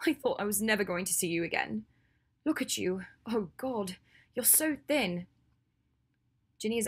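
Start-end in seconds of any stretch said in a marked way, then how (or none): 0.1-5.3 overwhelmed reunion voice, rising in pitch; tearful relief. Acted. Ginny greets a friend she feared lost, tearfully relieved. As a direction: let relief and worry lift the voice.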